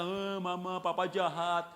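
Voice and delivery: drawn-out mock whine of a child; complaining child. Child telling mother papa is bad, mock whining. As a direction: tattle in an imitated child's whine. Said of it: "Misalnya anak berkata".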